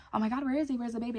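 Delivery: mock a mom's mild panic; mildly alarmed mom. Mimics mom's alarmed question.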